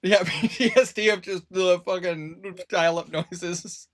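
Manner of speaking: laughing through the words. Real, not acted. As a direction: talk while laughing hard. Laughing at dial-up PTSD joke.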